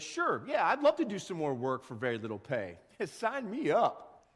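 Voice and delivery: mock eager, dragged out with a laugh; sarcastic agreement. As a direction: fake enthusiasm for a bad deal. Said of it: "You're like".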